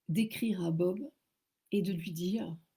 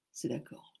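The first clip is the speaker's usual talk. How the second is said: low mock voice; 5 semitones lower, 7 dB quieter than usual. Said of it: "il me dit".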